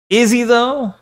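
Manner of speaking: high-pitched, sceptical question; sceptical repeat. Real, not acted. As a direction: raise the whole question in doubt. Repeats the doubt more pointedly.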